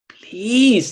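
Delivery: high, slow begging; pleading child. Acted. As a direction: beg mother to let him go. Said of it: "He starts pleading".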